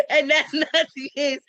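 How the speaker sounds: laughing through the words; giggling denial. Real, not acted. To Courtney, laughing that it isn't the case.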